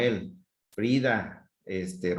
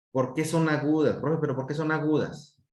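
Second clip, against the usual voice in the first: lightly voiced pupil, higher pitch; pupil's question; 5 semitones higher than usual. Teacher voicing a pupil asking why, light student voice. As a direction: ask teacher as a slightly puzzled student.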